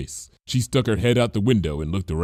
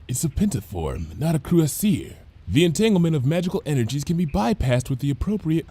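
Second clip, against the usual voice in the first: absent-minded mumbling; 6 semitones higher than usual. A narrator's reading. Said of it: "speaking vaguely to herself".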